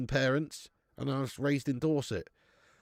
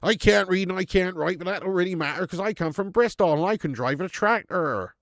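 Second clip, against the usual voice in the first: loud, higher-pitched hammed-up Bristol accent; Bristolian yokel; 5 semitones higher, 5 dB louder than usual. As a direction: play a boastful Bristol farmer. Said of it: "I knew you were a Bristolian".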